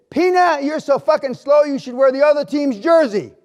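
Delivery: coach yelling. Retold or imitated.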